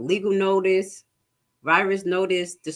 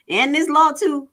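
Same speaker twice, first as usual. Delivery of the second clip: excited aside; 9 semitones higher, 6 dB louder than usual. Real, not acted. Excited aside while teaching.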